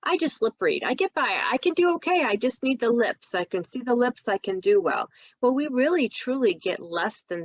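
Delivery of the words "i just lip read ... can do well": insistent patient. Retold or imitated. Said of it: "I get asked the question".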